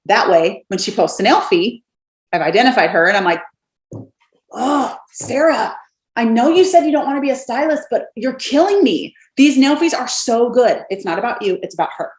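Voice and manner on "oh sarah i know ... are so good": gushing praise. Shown as a demonstration. Messaging a friend about her nail photos, gushing high.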